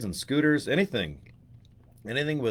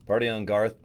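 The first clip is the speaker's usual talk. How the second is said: Wayne impression. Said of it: "Wayne and Garth".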